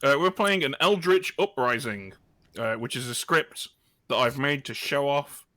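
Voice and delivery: chewing candy while talking; mouth full. Real, not acted. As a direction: talk around a mouthful of sweets. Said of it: "Sorry, I'm eating Haribo while we talk".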